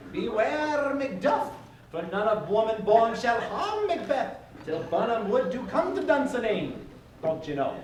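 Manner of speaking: hammed-up Scottish accent, laughing through it. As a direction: mangle Shakespeare in a comic Scottish accent. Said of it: "in perfect Scottish accents".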